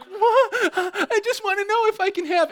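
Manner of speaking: put-on very high, loud squeaky little kid; scared kid. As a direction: squeal it like a startled seven-year-old. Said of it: "I'm like".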